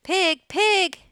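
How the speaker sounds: high, loud coaxing call; kindly farmer. A narrator's reading. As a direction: coax the pig kindly from afar. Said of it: "in a kind voice".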